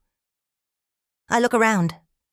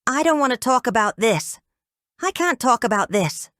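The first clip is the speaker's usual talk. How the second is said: higher and louder, a touch of tearful panic; old woman breaking down, pleading to stop; understated sobbing refusal; bursting into tears; 6 semitones higher, 3 dB louder than usual. Acted. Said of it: "bursts out in tears".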